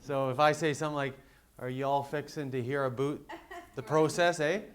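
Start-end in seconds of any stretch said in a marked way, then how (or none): 1.6-4.6 mock Southern twang ending in a Canadian eh; joking Southern accent with a Canadian eh; Southern drawl with Canadian eh. Shown as a demonstration. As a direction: lightly put on a Southern accent, tag on a Canadian eh. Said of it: "a Southern accent mixed with a Canadian accent".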